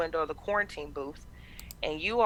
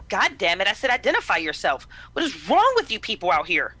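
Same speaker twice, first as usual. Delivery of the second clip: irritated; 3 semitones higher, 4 dB louder than usual. Acted. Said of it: "with just a look of pure irritation".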